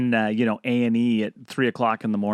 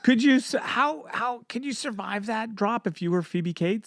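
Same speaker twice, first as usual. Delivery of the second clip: high squeaky voice; 9 semitones higher than usual. Acted. Joking question.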